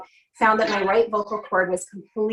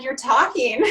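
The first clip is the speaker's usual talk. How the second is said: shocked doctor; 4 semitones higher, slower than usual. Retold or imitated. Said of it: "He was totally shocked".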